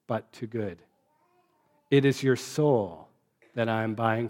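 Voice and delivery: a touch of solemnity, each word lightly emphasized. Acted. Bishop blessing Jean Valjean, mildly solemn and deliberate. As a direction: bless him gravely, weighing every word. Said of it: "He went on with a kind of solemnity".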